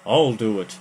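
a gruff eager shout; cried out. A narrator's reading. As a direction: push in ahead of the other. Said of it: "the bald man cried".

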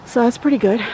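breathless, catching breath between phrases; winded from walking the yard. Real, not acted. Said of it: "I'm sorry I'm out of breath".

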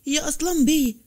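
urgent repeated call to the master. A narrator's reading. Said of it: "وقال بلهفة".

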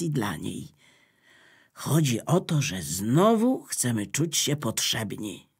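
Electricity asks the notebook for help, calmly. Acted. Electricity's low persuading voice.

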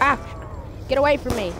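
panicked shout; yelling while running away. Real, not acted. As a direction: yell at them to back off. Zombies attack player.

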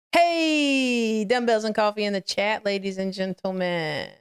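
sing-out welcome, settling as it goes; drawn-out greeting. Real, not acted. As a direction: call out a long hey to the chat. Greeting viewers arriving in chat.

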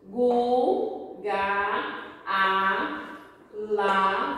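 "gu, ga, a, lá" as separate syllables; each of "gu, ga, a, lá" held on its own; syllable reading. Shown as a demonstration. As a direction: read out "gu, ga, a, lá" with pauses. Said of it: "Vamos ler".

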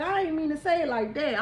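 laughing apology. Real, not acted. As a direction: take it back through a laugh. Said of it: "I'm sorry".

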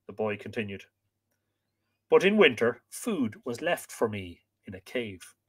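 calm storyteller reading a myth; story narration. A narrator's reading. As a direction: read aloud to listeners, measured.

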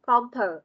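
compare said as "com-puh", with an ơ sound; schwa vowel. Shown as a demonstration. Teacher repeating the syllables for students, schwa at the end of compare. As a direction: show the neutral "uh" ending in compare. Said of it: "âm ơ".

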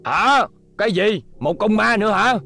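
jolted boss blurting out questions; startled. Acted. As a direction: caught off guard, then demanding. Boss startled by the ghost news.

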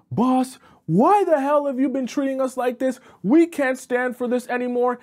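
high-pitched, loud protest at a boss; acted yelling. Coworker standing up to the boss, yelling. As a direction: yell it out like a fed-up employee. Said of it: "he starts yelling".

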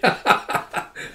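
short, breathy chuckle; quick mock laugh in character; acted chuckle. Retelling how he reacts to her blushing, acted chuckle.

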